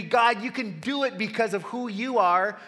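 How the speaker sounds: a hint of a bold, trusting Moses; confident Moses. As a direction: voice Moses as he should have answered. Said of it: "Moses' reaction should be".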